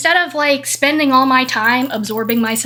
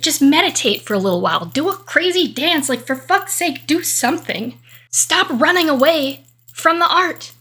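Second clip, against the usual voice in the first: emphatic urging; 3 semitones higher than usual. Retold or imitated. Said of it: "I'm talking to her and I'm telling her".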